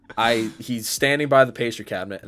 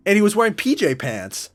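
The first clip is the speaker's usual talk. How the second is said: outraged disbelief; 10 semitones higher, 4 dB louder than usual. Real, not acted. Telling friends how the man peed, high outraged disbelief. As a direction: still can't believe he did it.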